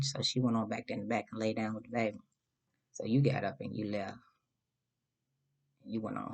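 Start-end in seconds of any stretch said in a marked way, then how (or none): none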